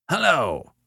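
querulous caller, pitched high and falling; a high, fretful hello down the telephone. A narrator's reading. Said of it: "said a querulous voice".

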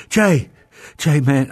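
acted-out alarmed phone greeting; retold urgent call. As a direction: call out the name like a friend in trouble. Retelling friend's urgent phone call.

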